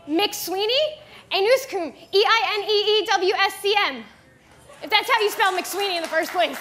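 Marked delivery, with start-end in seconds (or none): 1.3-1.9 McSweeney said backwards; backwards speech. Shown as a demonstration. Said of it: "I could say any word backwards". 2.1-4.0 letters read out quickly; spelling backwards. Shown as a demonstration. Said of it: "then I'm gonna spell it".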